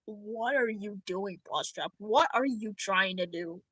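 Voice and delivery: acted quiet parental puzzlement; puzzled parent. Acted parent questioning the child.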